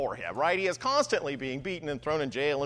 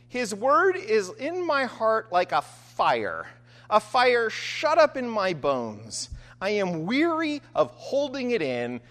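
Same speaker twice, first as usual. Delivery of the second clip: scripture reading; 2 semitones higher than usual. Acted. Preacher reading Jeremiah's confession to the congregation. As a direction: let the fire in the bones come through. Reads Jeremiah's words aloud.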